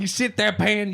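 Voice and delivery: high, gleeful teasing; excited teasing. Real, not acted. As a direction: crow it at him gleefully. Teasing friend, high pitched.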